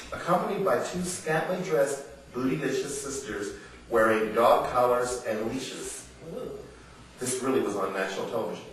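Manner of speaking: impassioned reading of her own prose; reading from her book. Acted. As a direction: read it aloud like a spoken essay, building to outrage. Reads passage from her book.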